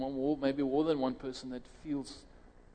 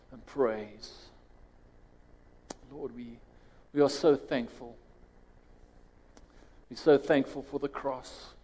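steady earnest prayer voice. Acted. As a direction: pray aloud over the congregation. Leads the congregation in prayer.

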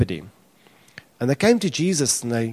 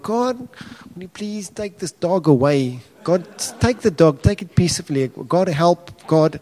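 mock desperate prayer; 4 semitones higher than usual. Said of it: "you can pray to God".

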